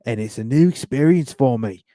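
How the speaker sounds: put-on a light Australian accent on a ballplayer's quote. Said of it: "I'll do my best Australian accent".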